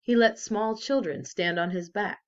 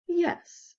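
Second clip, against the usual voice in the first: whispered yes; 12 semitones higher than usual. A narrator's reading. Librarian softly agrees.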